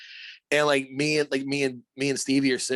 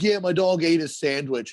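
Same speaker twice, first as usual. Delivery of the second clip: higher, louder imitation of the owner; lightly voiced dog owner; 5 semitones higher, 6 dB louder than usual. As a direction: play the owner recounting it, lightly mocked. Voicing the dog's owner.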